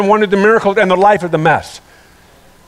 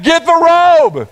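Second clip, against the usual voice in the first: higher, drawn-out call back to servants; calling out, slow; 7 semitones higher, slower than usual. Retold or imitated. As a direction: call out slowly for the robe. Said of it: "he yelled back".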